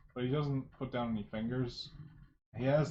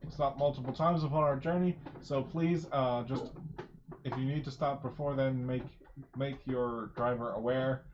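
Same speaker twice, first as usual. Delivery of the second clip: airline safety announcement. Acted. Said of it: "airline pre-flight speech".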